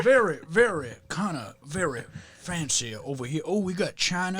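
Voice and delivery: fancy genteel Virginia Southern; proper Virginia accent. Acted. Comic continuing his proper Virginians bit, fancy Southern accent. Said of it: "they seem so much more proper".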